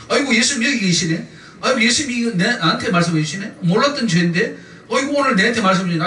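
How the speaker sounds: lightly acted pleasant astonishment; a touch of delighted surprise; mock amazed discovery. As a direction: exclaim as if just noticing it. Acting a believer discovering Jesus.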